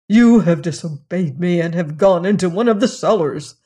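lightly voiced master, stern and cross; stern angry master. Master scolding the lad for disobeying, stern and angry.

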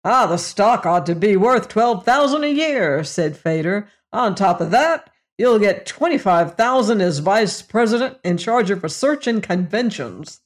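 a hint of a hearty, leering salesman; lightly voiced brash boss. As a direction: lightly play the jovial boss slapping backs. Narrator voices the boss Fader.

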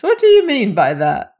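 taken-aback question; exclaiming. A narrator's reading. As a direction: ask it in astonishment. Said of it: "exclaimed Old Pipes".

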